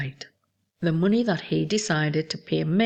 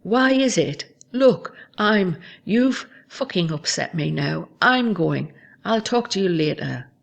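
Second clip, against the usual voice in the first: sharp, louder bursts before hanging up; quoting a partner who snaps before hanging up, in louder bursts; retold angry exit; 3 dB louder than usual. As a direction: voice his upset walk-off. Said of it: "And then he hangs up".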